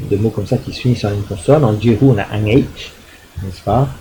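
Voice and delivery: ordinary talk, nothing marked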